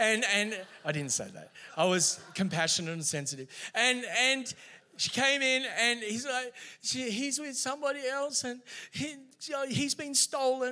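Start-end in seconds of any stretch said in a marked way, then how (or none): 7.1-10.7 mock sobbing, high, tearful and upset. Retelling what a weeping girl said in the office: imitating someone weeping. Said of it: "She's weeping and crying".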